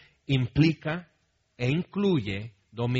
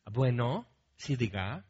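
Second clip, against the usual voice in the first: softer, lower, courteous phone voice; polite phone answer; 3 semitones lower, 4 dB quieter than usual. Retold or imitated. Mom answering the phone politely, soft and courteous. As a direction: answer nicely as a proper mom would. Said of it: "¿Contesta así?".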